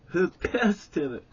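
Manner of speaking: angry demand. Retold or imitated. Stan confronting the boys, loud and angry. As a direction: snap the question at the group.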